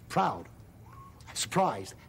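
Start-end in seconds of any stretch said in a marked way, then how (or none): 0.1-0.5 quick clipped proud with a sigh; fast proud. Shown as a demonstration. Fast round of faces with the child, quick proud. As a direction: rush through it. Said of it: "You wanna do 'em fast?".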